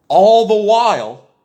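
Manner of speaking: loud, high shout. Real, not acted. Ranting vlogger bursts into a loud, high shout. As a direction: suddenly belt it out.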